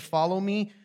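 called out high and loud; a firm call to follow; Jesus calling out. Retold or imitated. Preacher voicing Jesus calling his followers. Jesus calls disciples in retelling.

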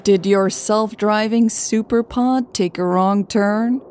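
amused. Acted. Lucas teasing the stranded pair, amused. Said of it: "sounding genuinely amused".

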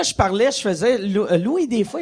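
ordinary delivery

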